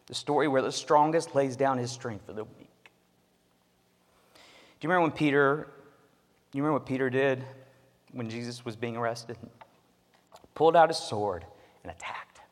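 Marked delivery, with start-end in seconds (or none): none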